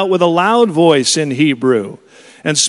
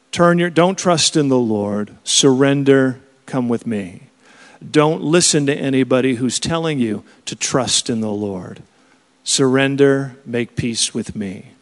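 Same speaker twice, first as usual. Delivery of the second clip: voice of the enemy; 3 semitones lower than usual. Retold or imitated. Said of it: "This is the voice of the enemy".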